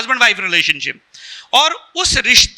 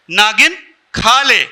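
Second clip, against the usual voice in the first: slowly, word by word; slow deliberate quote; slower than usual. Acted. Speaker repeating the husband's words to wife, slow and deliberate. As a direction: draw out each word evenly.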